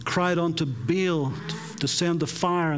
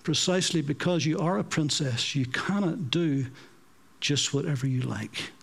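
gentle; 3 semitones lower than usual. Retold or imitated. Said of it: "took her aside and gently said".

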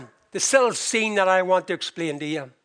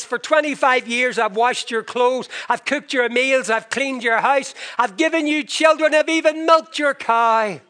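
rising higher and louder item by item; building exasperation; 4 semitones higher, 4 dB louder than usual. Retold or imitated. Wife listing twenty-five years of work, building louder. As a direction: pile up the chores, growing heated.

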